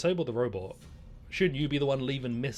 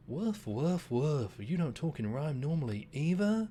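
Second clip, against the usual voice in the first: lightly voiced hound, a touch higher; old hound voice; 3 semitones higher, slower than usual. Old hound retorts to the rooster, lightly voiced dog. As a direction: answer like a dry old dog.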